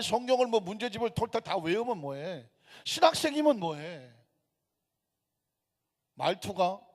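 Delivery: forceful rebuke in rhetorical questions; indignant preaching. Real, not acted. Preacher rebuking believers who hate over a dialect, indignant. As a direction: preach it hard, pushing each question out.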